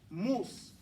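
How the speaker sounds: Mus said slowly, tongue lifting off the s; slow demo. Shown as a demonstration. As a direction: show Mus clearly, releasing the s. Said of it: "Watch my mouth".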